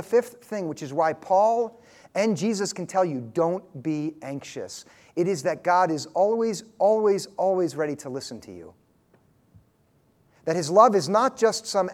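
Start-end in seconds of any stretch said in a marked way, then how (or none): 3.2-4.9 drawn-out don't be anxious; slow it right down, tender; slow, gentle command. Shown as a demonstration. Preacher easing the congregation, slow and gentle. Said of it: "preacher slows on Paul's command". 5.2-8.7 always stressed each time, lingering; repeated always. Shown as a demonstration. Preacher assuring listeners God always listens, stressed always. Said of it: "repeats always for emphasis".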